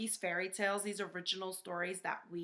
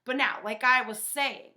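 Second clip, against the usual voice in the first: wolf quoted; 2 semitones higher, 9 dB louder than usual. Retold or imitated. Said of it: "when he says".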